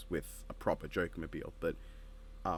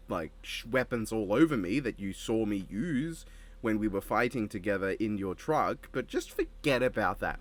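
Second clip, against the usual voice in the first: put-on light British accent, mate-heavy taunting Joker; a hint of a British Joker baiting Needles; British Joker impression. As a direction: goad him in a cheeky British accent. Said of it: "my Joker voice was British there".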